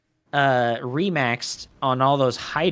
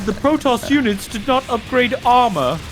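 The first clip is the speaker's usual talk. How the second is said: shocked; 7 semitones higher, 5 dB louder, slower than usual. Real, not acted. Shocked cast call.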